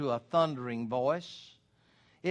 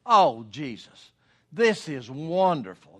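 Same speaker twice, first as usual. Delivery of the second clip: casual vain exclamation; 2 semitones lower than usual. Shown as a demonstration. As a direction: toss off Oh Jesus like a throwaway oath. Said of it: "as an exclamation and used in a vain way".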